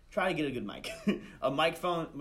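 light chuckle through the words; laughing. Real, not acted. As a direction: giggle over the technical tip. Laughs at his own tech tip.

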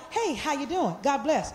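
soft, dismissive hello with no interest; fake greeting. Shown as a demonstration. Pastor showing the after-church greeting she dislikes, hollow and dismissive. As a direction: brush them off politely without meaning it. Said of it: "I don't like".

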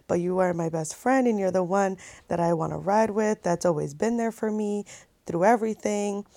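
softly retold declaration of love; tender retelling. Boyfriend to girlfriend before proposing, softly tender. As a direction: retell his sweet words quietly, tenderly.

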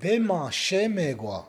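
slowly modelled phrase with swooping tune; expressive model phrase. Shown as a demonstration. Teacher models for learner to repeat, slow expressive delivery. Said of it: "Say it with me".

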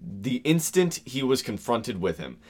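slight stuffy Victorian officer voice; lightly voiced official. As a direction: read like a stiff memoir. Reading quote in deeper voice.

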